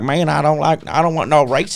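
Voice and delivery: imitated drawling redneck voice; mock redneck dude. Patient parodying what the nurse assumed he was, redneck caricature. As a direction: put on a caricature of a bigoted tattooed dude. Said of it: "some white dude with a beard and tattoos".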